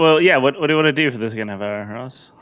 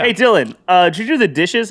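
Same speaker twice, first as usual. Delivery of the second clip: higher, motherly call to her son; mom voice; 6 semitones higher than usual. Pretend. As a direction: play the mom asking about chores. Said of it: "I'm gonna play both characters".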